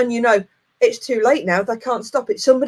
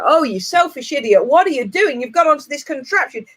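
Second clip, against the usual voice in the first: scolding herself; 5 semitones higher than usual. Retold or imitated. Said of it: "what's usually going through my head".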